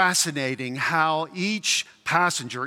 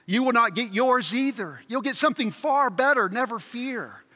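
higher, lightly voiced heavenly friend; 6 semitones higher than usual. Heavenly friend promises ghost something better, reassuring. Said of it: "friend from heaven says".

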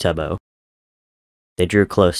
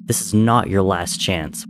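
snapped. Acted. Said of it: "Wilbur snapped".

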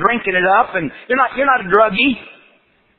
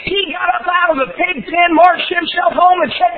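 preaching at full force; 9 semitones higher than usual. Acted. Preaching climax.

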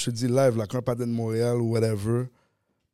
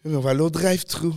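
mock France French accent; 4 semitones higher, faster than usual. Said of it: "il te le dit en anglais, mais français".

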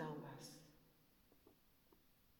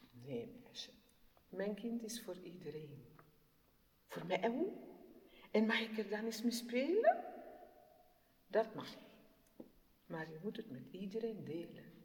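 gentle mother. Acted. Mother answers child gently.

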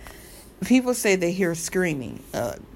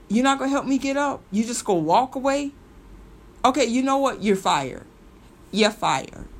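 higher, louder mock tell-off; sassy angry singer; 4 semitones higher, 3 dB louder than usual. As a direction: play it as a diva firing her assistant on the spot. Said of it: "this is how I would have said it if I was Selena".

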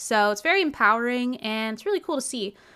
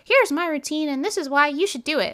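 mock influencer; 6 semitones higher, 4 dB louder than usual. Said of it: "sit here and be like".

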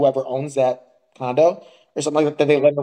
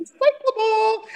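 very high, drawn-out mock objection; exaggerated falsetto correction, slow; imitated fussy neighbour; slower than usual. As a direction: stretch it out in a soaring prissy voice. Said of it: "tell me he did a head bob".

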